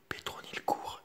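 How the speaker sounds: usual speaking voice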